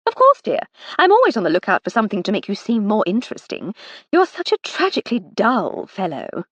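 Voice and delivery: a hint of a fond, mocking older sister; Lady Hardcastle.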